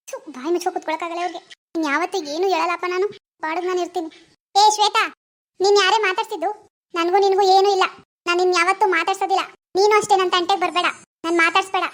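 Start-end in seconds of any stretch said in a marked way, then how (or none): 4.5-11.8 louder, snapping at her classmate; angry outburst. Acted. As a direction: cut her off for good, furious. Girl angrily ends friendship. (ಕೋಪದಿಂದ ಜೋರಾಗಿ ಗದರಿಸುವುದು)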